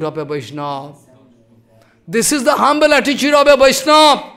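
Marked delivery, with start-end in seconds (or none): 2.1-4.2 high and loud the second time; preacher repeating with force; emphatic restatement. Shown as a demonstration. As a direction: drive the point home.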